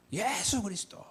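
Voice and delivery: high-pitched mock cry, held back in volume; imitated crowd shout. Youths answering the preacher's question, high imitated shout. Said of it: "이렇게 외치죠".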